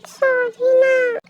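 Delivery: long drawn-out, coaxing sorry; pleading apology. Acted. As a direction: stretch it out to win him over. Girl pleads with angry boyfriend. (मनाते हुए, खींचकर)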